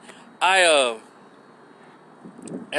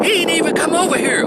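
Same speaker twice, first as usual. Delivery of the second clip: high, louder mock denial; imitated angry woman; 11 semitones higher, 5 dB louder than usual. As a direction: mimic a girlfriend protesting loudly, pitched up. Acting out woman's denial in quarrel.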